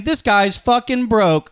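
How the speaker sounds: the machine mocking him at the scanner; gym machine voice. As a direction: drawl it like a smug machine. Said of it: "Basically saying".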